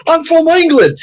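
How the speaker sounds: high put-on British accent. Englishman at a yard sale, high British accent. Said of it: "he's got the accent and everything".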